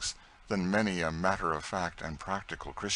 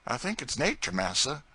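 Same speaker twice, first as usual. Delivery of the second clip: much higher, louder earnest servant voice; Tom's pleading voice; 6 semitones higher, 5 dB louder than usual. Acted. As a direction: plead for a life of your own. Tom pleads for freedom.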